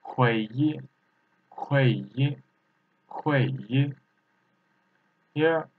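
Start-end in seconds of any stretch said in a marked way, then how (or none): 0.0-3.9 "Hui yi" with a Mandarin fourth tone; "Hui yi" as a tone drill, with fourth tone. Shown as a demonstration. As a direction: model the tones of "Hui yi" distinctly. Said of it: "fourth tone".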